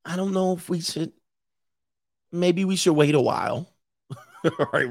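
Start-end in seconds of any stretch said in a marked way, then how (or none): 0.1-3.7 mock hesitant girl, voice softened; faltering fake-innocent girl voice; acting dumb. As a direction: play coy and clueless, stalling. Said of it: "they gonna be acting real dumb".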